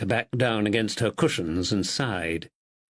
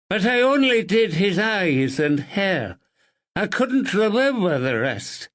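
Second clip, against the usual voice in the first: muffled voice; 4 semitones higher than usual. Acted. Narrator voices Billy.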